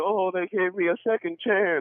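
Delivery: put-on high, young female radio ad voiceover. Retelling a radio commercial on credit: imitating a woman in a radio ad. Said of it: "It's a girl that comes on there, is like".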